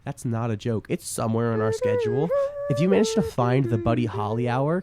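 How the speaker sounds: loud radio announcer; loud announcing to listeners. Shown as a demonstration. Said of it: "old radio voice".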